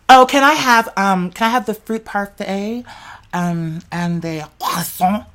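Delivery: playing out an order. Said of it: "I'm playing this out in my mind".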